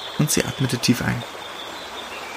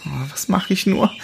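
high, anxious self-talk; a young she-wolf fretting to herself; worried muttering; 7 semitones higher than usual. Acted. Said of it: "sagte sie immer wieder zu sich selbst".

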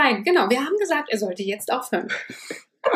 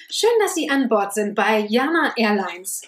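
flight attendant. Pretend. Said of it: "ich mach die Stewardess".

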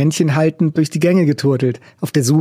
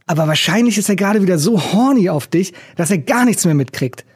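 angry shout; 5 semitones higher than usual. Acted. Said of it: "dann schrie er los".

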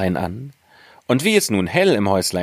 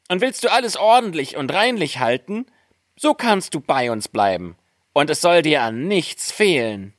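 high little voice, listing item by item; dwarfs; 12 semitones higher than usual. A narrator's reading. Dwarfs invite Snow White to stay, high dwarf voice. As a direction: make the offer in a piping dwarf voice. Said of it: "Die Zwerge sprachen".

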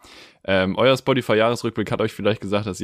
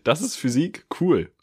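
mock surprise; 8 semitones higher, slower than usual. Mock dumb astonishment.

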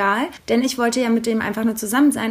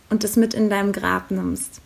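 whispered secret; 2 semitones lower than usual. Retold or imitated. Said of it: "er meinte dann so".

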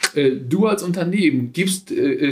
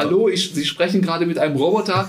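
robot voice. Pretend. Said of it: "der Roboter muss sich zu erkennen geben".

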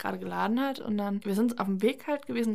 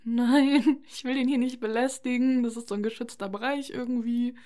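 flustered refusal; 2 semitones higher than usual. Retold or imitated. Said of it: "Ich war dann so".

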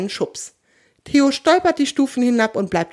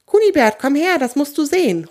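high, loud summoning call; excited call; 7 semitones higher, 4 dB louder than usual. A narrator's reading. Little Buschibau summons his best friend, calling excitedly. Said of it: "ruft der kleine Buschibau seinen besten Freund".

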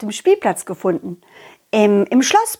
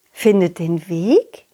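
low, slow puzzled echo; wondering aloud; puzzled question; 3 semitones lower, slower than usual. Acted. Clown repeats puzzled.

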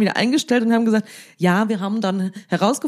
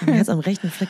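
laughing. Real, not acted. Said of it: "das klingt mir auch komisch".

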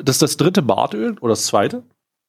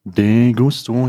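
drawn out; much slower than usual. Shown as a demonstration. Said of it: "Ja, de gusto".

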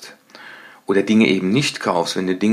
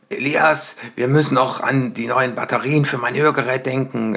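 higher call across the room; calling loudly; 4 semitones higher than usual. Retold or imitated. Father calls loudly to his son about hearing-aid batteries, a mock loud call. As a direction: call out to your son, hamming it up. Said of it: "also ich ruf dann ganz laut".

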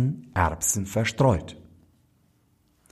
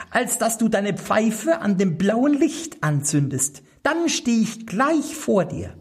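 much higher, small goblin voice; little black manikin; 12 semitones higher than usual. A narrator's reading. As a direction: pipe it up like a tiny magic servant. (hohe, kleine Koboldstimme)

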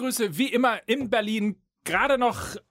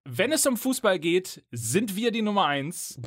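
radio host voice; 2 semitones higher than usual. Pretend. Radio jingle parody intro.

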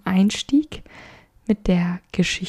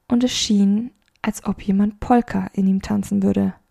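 measured audiobook narration; story narration. A narrator's reading. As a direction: read the story with gentle expression. Reads a story aloud.

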